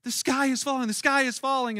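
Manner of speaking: panicked Chicken Little. Retold or imitated. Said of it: "what does she say".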